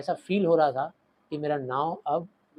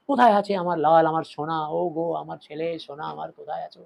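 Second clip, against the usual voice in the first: mock wailing mother. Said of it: "जोर से रोते चिल्लाते".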